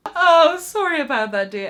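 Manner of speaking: sing-song lady. Retold or imitated. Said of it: "And she just go".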